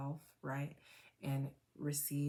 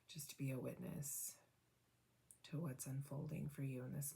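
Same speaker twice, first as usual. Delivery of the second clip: guided meditation. Acted. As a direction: guide them gently into noticing. Guided reflection after tapping.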